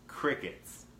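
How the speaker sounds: breathy whisper, deadpan; whispered crickets. Real, not acted. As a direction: whisper it like an empty room. Joke about nobody answering.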